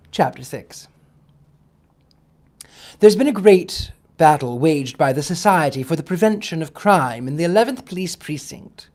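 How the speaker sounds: steady storytelling read-aloud; audiobook-style narration; story narration. A narrator's reading. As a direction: read the chapter to the listeners. Restarts the chapter reading.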